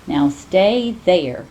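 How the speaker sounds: slow, firm command to a pet; girl ordering her iguana to stay. Acted. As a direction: make him stay put. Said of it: "she ordered Fred".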